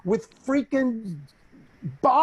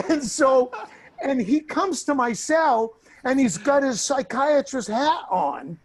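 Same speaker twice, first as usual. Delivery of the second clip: laughing while talking; 4 semitones higher than usual. Real, not acted. Laughing while telling the story.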